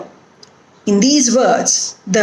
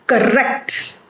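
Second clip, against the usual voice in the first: weak cor, strong rect in correct; stress on second syllable. Shown as a demonstration. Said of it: "put the stress on the root word".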